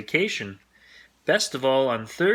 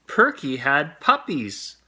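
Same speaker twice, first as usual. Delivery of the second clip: excited news; 3 semitones higher, 4 dB louder, slower than usual. A narrator's reading. Arthur announces the puppies.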